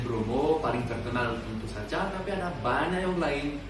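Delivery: Indonesian spoken with a French accent; a French learner speaking careful Indonesian. Real, not acted. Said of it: "aku asli Perancis".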